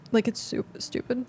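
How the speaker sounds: talking through hiccups. Real, not acted. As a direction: catch a hiccup mid-word. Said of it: "I'm hiccuping".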